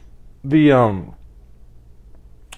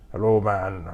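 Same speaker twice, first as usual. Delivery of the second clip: second try at Arnold; 5 semitones lower, 7 dB quieter than usual. Retold or imitated. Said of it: "I can't do an Arnold impersonation".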